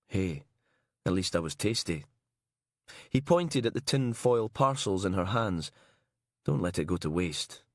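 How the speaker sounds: wry dead husband. Acted. Dead husband jokes, coaxing her.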